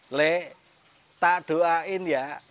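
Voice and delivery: mock blessing, drawn out slowly; slow teasing wish, punched at the end; imitating mother teasing. Mother teasing her child with a prayer, slow mock blessing. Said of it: "ibu saya sambil ketawa ngomong gini".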